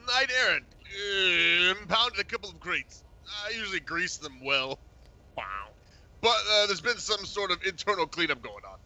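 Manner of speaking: Bozeman voice. Acted. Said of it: "The speaker is the voice of Bozeman".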